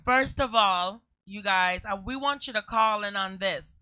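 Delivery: host call-in. Acted. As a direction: invite the listeners to call in. Radio host addressing listeners.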